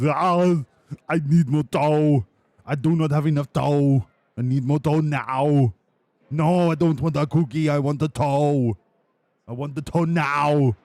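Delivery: put-on a toddler demanding his toe, loud and whiny; whiny Oscar impression. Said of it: "I've been practicing my impression of him".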